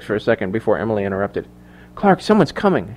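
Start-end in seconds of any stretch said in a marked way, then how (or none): 1.9-2.9 soft, high, hushed alert; urgent hushed heads-up; whispered warning. A narrator's reading. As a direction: warn him under your breath. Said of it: "she whispered".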